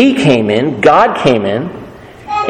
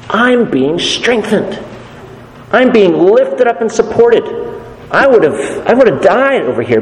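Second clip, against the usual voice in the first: a lightly voiced Paul, higher and earnest, correcting the crowd; Paul protesting; 4 semitones higher than usual. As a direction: play Paul gently insisting he's misunderstood. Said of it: "And Paul turns around and says".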